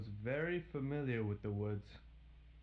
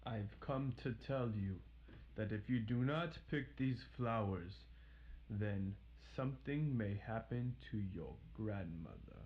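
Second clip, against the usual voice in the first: devious. Acted. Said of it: "the wolf said very deviously".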